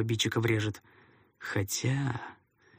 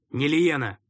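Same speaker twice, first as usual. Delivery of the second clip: calling out; 5 semitones higher, 5 dB louder than usual. A narrator's reading. Narrator calls out to cook.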